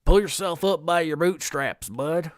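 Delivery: lightly Southern, folksy advice voice; Southern accent. Acted. Mimicking what guys are told growing up, in a Southern accent. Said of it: "I don't know why it went Southern".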